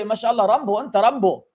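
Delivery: mock Arab accent, teasing; joking Arab-accented praise. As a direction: tease him in a light Arab accent. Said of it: "with the Arab accent".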